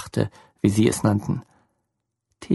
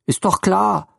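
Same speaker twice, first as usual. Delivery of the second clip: higher, tearful motherly voice; upset motherly woman; 7 semitones higher, slower than usual. A narrator's reading. Lene breaks the news to Theo, distraught. Lene's voice again.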